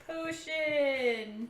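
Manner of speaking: stretched word, a little singsong; slowly spelling out a list item; drawn-out note-taking. Real, not acted. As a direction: draw it out as you write it down. Noting down items aloud.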